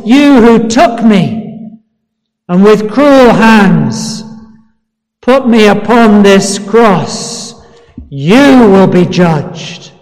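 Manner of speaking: restrained declamation, short of a shout; loud voice of judgment. Acted. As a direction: pass sentence on the accused, deliberately and weightily. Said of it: "shouting out with a loud voice".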